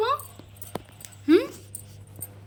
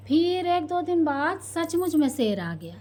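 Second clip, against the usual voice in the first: P=A; dramatic telling; 4 semitones higher than usual. Shown as a demonstration. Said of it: "repeated plainly".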